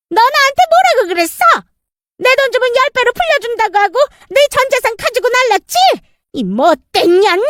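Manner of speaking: high, outraged woman scolding a swindler; furious creditor. Acted. Cheated creditor shouts at the swindler stepmother, outraged. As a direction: confront her like a robbed victim.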